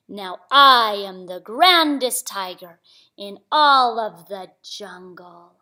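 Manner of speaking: slow, stretched proud boast; boastful tiger. Acted. Tiger going off with Samba's umbrella, slow grand boast. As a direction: swell loudly on GRANDEST, then drop away.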